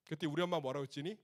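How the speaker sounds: normal talking voice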